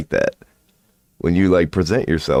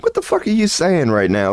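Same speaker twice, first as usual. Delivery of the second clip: retold angry challenge; 10 semitones higher than usual. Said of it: "I was like".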